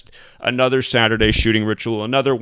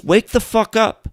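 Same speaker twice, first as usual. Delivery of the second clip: angry shout; 10 semitones higher, 3 dB louder, slower than usual. Real, not acted. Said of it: "yelling at viewers".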